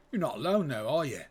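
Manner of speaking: lightly faked working-class British accent; a hint of rough British lout. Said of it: "lower class British accent".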